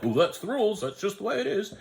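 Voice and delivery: high, laughing mock voice of a rule stickler. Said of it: "that guy who's like".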